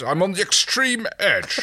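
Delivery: laughing. Acted. Laughing while quoting.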